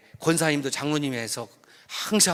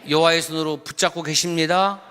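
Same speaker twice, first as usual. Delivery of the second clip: declaring to neighbor. Acted. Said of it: "옆 사람 보면서 시작".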